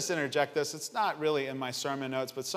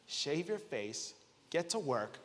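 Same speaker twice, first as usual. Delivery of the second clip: soft, deliberate tough talk to oneself; quiet self-scolding; 6 dB quieter than usual. Acted. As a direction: scold yourself under your voice in the mirror. Scolding himself in the mirror.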